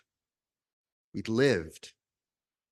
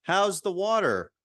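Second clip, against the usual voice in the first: put-on higher, slow, folksy greeting from a wise old fish; 6 semitones higher, 3 dB louder, slower than usual. Minister voicing the old fish in a parable, high and slow. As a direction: stretch it out like a kindly elder fish. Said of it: "I'm assuming that's how he sounded".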